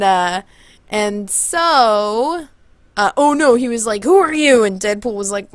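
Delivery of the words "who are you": high, loud quick challenge; challenging troll. Retold or imitated. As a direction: imitate a troll demanding a name. Troll challenges Deadpool at bridge.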